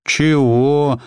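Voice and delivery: high, unfriendly snap; cold, curt question; hostile. A narrator's reading. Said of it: "чужой и неприязненный в темноте".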